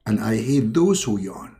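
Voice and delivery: lightly voiced low deity; restrained godly voice; Allah. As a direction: confide in a slightly deep, solemn tone. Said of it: "I am Allah".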